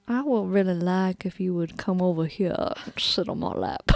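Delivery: flirt in a put-on Charleston accent; fake Charleston accent. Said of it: "I would have a fake Charleston accent".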